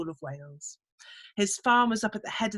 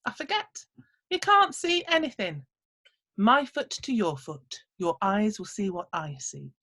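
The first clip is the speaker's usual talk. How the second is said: little man explaining. Acted. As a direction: chant the last lines like a charm. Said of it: "said the little man".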